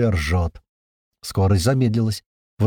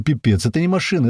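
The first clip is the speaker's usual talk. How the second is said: plain reading voice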